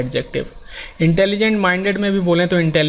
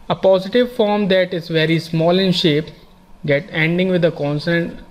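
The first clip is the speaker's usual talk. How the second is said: slow, careful reading of a grammar rule; much slower than usual. Shown as a demonstration. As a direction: dictate each phrase slowly to the class. Reads rule text slowly. (धीमे-धीमे नियम पढ़ना)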